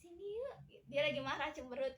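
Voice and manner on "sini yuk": soft, higher-pitched coaxing; sweet, soft invitation, acted as an example; gentle intonation. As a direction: coax someone over gently. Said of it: "marah intonasinya lembut gitu".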